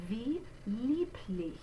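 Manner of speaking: "Wie lieblich" slow and soft, W said as V; German pronunciation. Shown as a demonstration. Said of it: "say that W spelling like a v".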